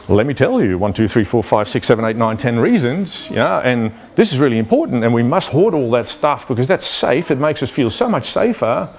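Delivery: hammed-up justification, rising in pitch as it goes; insistent security guard. Security guard justifying panic buying to CEO, insistent. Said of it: "But the security guy goes like".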